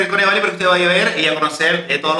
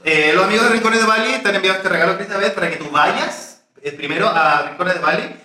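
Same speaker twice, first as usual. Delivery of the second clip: presenter voice. Acted. Presenting sponsor gift.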